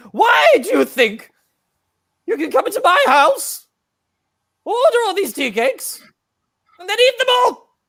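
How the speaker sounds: outraged granny. Acted. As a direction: build from cross to shrieking granny.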